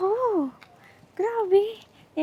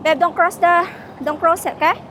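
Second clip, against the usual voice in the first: sharp, raised-voice warning to a partner; real, loud caution, pitched up; urgent warning; 6 semitones higher, 8 dB louder than usual. Real, not acted. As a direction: call out higher and louder to stop them. Warns partner at red light.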